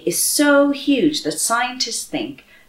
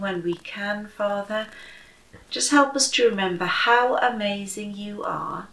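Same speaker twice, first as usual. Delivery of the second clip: softer, gentle closing prayer; 3 dB quieter than usual. Acted. Leading the family in prayer to God, softly prayerful. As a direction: pray quietly over the children.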